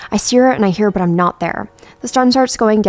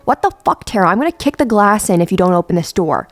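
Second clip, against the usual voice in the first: furious yell at a friend locked inside; 4 dB louder than usual. Retold or imitated. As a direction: yell at her through the glass to open up. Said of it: "I start yelling".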